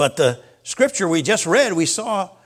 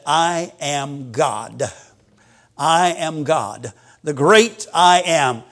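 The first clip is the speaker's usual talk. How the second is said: slow solemn declaration; 4 semitones lower, slower than usual. Acted. Preacher voicing Jesus' declaration.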